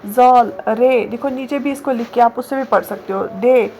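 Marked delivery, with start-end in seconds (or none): 0.1-1.0 very slow, drawn-out reciting of each letter name; slow alphabet recitation. Shown as a demonstration. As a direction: chant the letters slowly for beginners. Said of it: "फिर से एक reading करते हैं।".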